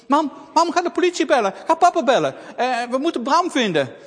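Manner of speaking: high, loud frightened pleading; alarmed child; urgent panic. Acted. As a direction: beg mum to call for help. Girl urges mother.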